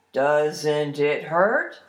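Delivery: low, very slow wary question; doubtful troll. Acted. Troll wonders about cutting his stomach, slow and doubtful. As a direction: ask slowly, unsure, as a troll.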